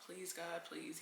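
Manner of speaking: soft pleading prayer; quiet desperate plea; hushed prayer. Retold or imitated. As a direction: pray under your breath, begging. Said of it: "I'm praying in English".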